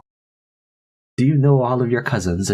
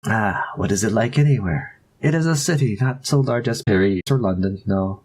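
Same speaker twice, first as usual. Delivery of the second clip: put-on French accent. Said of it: "getting better at the French accent".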